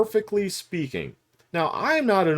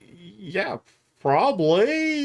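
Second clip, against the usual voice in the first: hesitant agreement; 5 semitones higher, much slower than usual. Retold or imitated. Retold hesitant reply to blunt interviewer.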